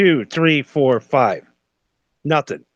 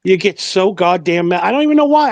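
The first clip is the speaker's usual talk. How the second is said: worked-up rant; 4 dB louder than usual. Real, not acted. Ranting about Super Bowl anger.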